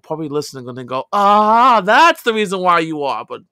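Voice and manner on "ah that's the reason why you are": loud, barking army-style yell; mock drill sergeant yell. Ex-soldier imitating the drill sergeants who yelled at him, mock yell. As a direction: bark it like a drill instructor.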